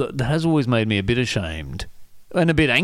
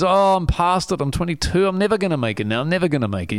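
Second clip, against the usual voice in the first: mock moaning; 5 semitones higher than usual. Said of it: "I used to moan to my friends".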